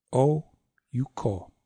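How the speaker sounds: long "Oh", pause, quick "you" into "ko"; "Oh, you, ko" as long, short, long; short middle syllable. Shown as a demonstration. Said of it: "make that short".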